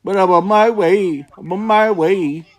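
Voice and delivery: high mock-Welsh accent; Taffy. Shown as a demonstration. Mocking a YouTuber telling someone off, high Welsh impression. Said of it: "Just doing a, uh, Taffy impression".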